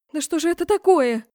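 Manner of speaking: ordinary delivery, nothing marked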